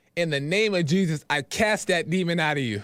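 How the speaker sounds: ordinary delivery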